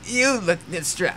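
put-on old lady voice. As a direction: start a shaky-free old woman voice then drop it. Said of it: "I can't do an old lady voice".

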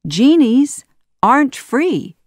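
high, loud, punched declaration; triumphant. A narrator's reading. Aladdin springs the trap on Jafar, triumphantly. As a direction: deliver the catch with relish. Hero triumphs over trapped villain.

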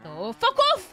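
high, loud fed-up outburst; outraged shout. Real, not acted. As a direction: snap it back loud and high. Outraged retort to a tease.

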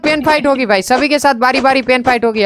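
announcing the rules. Real, not acted. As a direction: lay down the rules for everyone. Announcing fight rules to players. (ऊँचे सुर में नियम का ऐलान)

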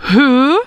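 he with a puffed H sound. Shown as a demonstration. Teacher models he with an aspirated H. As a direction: sound the H clearly in he. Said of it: "he, avec un H".

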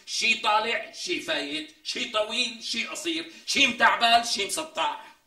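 high, drawn-out mockery, word by word; slow mocking list. Mocking her teeth to his friend, slow and high. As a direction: stretch each jab out slowly to ridicule her.

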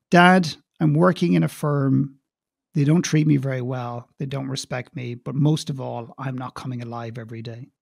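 lightly voiced daughter's quiet admission, trailing down; downcast confiding. Grown daughter confiding in Dad about work, downcast.

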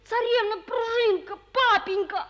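calls out loudly for his papa; boy shouting to his father after a scary dream; calling out. Acted.

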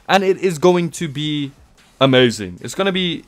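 tipsy, slightly slurred talk. Real, not acted. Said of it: "I'm tipsy, okay?".

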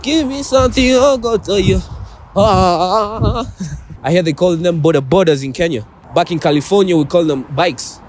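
Southern cowboy twang; American country accent. Acted. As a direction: play a Texan showing off. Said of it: "adopt an American country accent".

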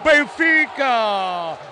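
slow stretched team name; explosive goal commentary. Real, not acted. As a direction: drag the team name out in triumph. Goal called, team name drawn out.

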